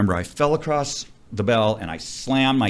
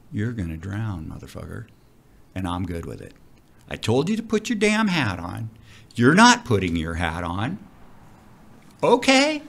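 icy calm. Retold or imitated. Diver calmly telling his panicking partner he'll drown. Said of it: "with all the calmness I could possibly have".

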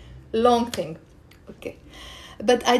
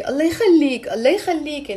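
pleading, with rising and falling emphasis; begging; 3 semitones higher, faster than usual. Shown as a demonstration. Teacher showing how we beg someone, mild pleading. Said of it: "when we're begging someone in a way".

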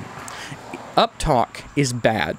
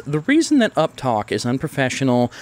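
normal talking voice

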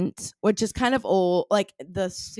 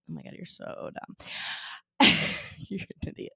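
whispered teasing; 6 dB quieter than usual. Real, not acted. Teasing whisper through laughter.

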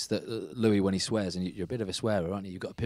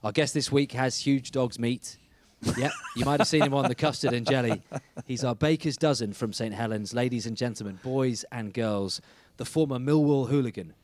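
punchy presenter read, louder than chat; scripted show intro; 2 semitones higher, 4 dB louder than usual. Acted. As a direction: deliver a rhyming-slang intro like a show host. Host introduces guest from script.

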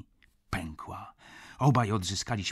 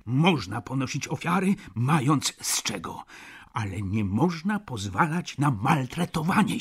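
louder and higher, peaking on a high outburst; heated insistence; 3 semitones higher, 5 dB louder than usual. Acted. Friend scolding Stach for letting himself be mistreated, loud and heated. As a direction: lecture him with rising heat.

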